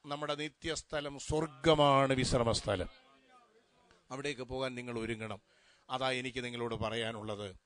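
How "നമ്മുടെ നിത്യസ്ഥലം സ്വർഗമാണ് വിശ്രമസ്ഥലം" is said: loud, ringing declaration of heaven as rest; preaching emphasis. Real, not acted. Preacher telling mourners heaven is their eternal home, loud declaration. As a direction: proclaim it full-voiced to the whole hall.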